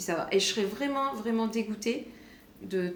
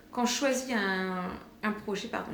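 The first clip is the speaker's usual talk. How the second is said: talking while chewing gum; words round a piece of gum. Real, not acted. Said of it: "j'ai un chewing-gum". (en mâchant un chewing-gum)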